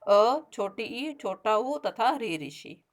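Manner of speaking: each short vowel said slowly and clearly for the class; slow recitation. Shown as a demonstration. Teacher slowly reciting the short vowels to the children, deliberate and clear. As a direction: spell the vowels out one by one, unhurried. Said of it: "ये संख्या में चार होते हैं बच्चों".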